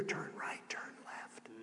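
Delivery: hushed whisper in the ear. Acted. Preacher voices God guiding a listener, whispered. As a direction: drop right down to a soft whisper. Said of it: "He will even whisper in your ear".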